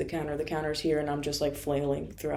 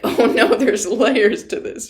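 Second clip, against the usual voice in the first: mock struggle not to laugh, loud and higher; loud, drawn-out amused disbelief; holding back tears; 5 semitones higher, 12 dB louder than usual. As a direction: imitate someone barely holding it together. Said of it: "He's holding back the tears".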